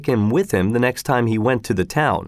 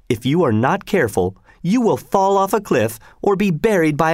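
lightly voiced worried wife, higher; a hint of a nagging housewife objecting; fretful mother; 4 semitones higher than usual. Wife warns of mountain dangers.

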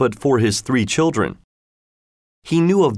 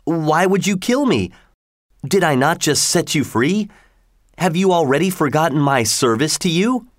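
higher, hurt fisherman pleading; a wronged fisherman, pitch raised; 6 semitones higher than usual. A narrator's reading. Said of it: "replied the fisherman".

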